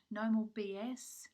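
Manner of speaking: hoarse voice giving out; losing voice. Real, not acted. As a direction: voice fading to a husky half whisper. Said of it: "Sorry, I'm losing my voice".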